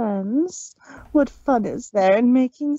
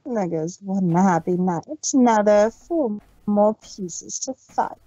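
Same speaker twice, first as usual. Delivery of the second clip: gloating villain; 6 semitones lower than usual. Acted. Discord mocking the fallen rook, gloating. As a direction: savor each piece lost.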